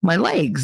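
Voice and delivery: "legs" insisted on as "laygs"; Jersey "legs". Shown as a demonstration. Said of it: "That's what I said".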